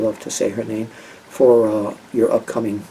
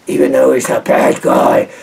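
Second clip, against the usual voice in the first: Neville impression. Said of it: "he talks like this".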